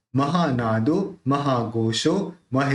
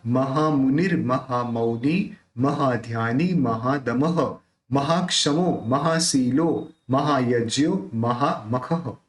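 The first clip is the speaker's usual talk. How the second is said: measured devotional chanting of the names; slow sacred chant; stotra recitation; slower than usual. Shown as a demonstration. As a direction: recite each name as a prayer, evenly and deliberately.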